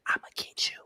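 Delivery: whispered villainous threat; cartoon villain whisper. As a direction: hiss it like a scheming cartoon baddie. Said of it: "I'm sounding like a cartoon villain right now".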